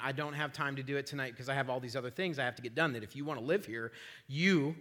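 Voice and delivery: quick, low grumble to himself; soft, hurried inner rant; said in his head. Retold or imitated. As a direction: rattle it off under your breath. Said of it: "I said that in my head".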